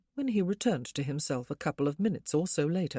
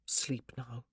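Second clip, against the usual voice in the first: lower, softer bedtime; soft, low soothing; 5 semitones lower, 5 dB quieter than usual. Acted. Husband soothes his wife to sleep, lower and softer. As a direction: ease her into sleep.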